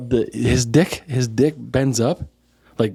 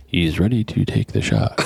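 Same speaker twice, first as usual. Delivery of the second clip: lower, hushed golf announcer; golf commentator; 6 semitones lower than usual. Pretend. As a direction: hush it like a TV golf call. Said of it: "you gotta do it in the golf voice".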